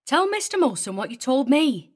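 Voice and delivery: high-pitched, bossy bark; barked order. A narrator's reading. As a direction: bark at the husband to get talking. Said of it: "she barked".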